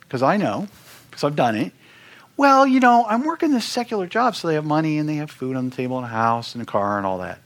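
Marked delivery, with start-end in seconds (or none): 2.4-7.4 much higher, mock defensive excuse; self-justifying excuse. Mimicking a busy minister excusing himself to himself, mock defensive. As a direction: parody your own excuse-making. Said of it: "you're gonna tell yourself".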